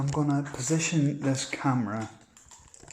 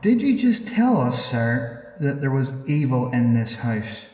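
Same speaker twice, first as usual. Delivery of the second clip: startled question; 6 dB louder than usual. Real, not acted. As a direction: jump on what was just heard.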